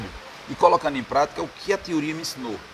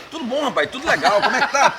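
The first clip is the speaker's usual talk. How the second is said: imitated DJ greeting; 9 semitones higher than usual.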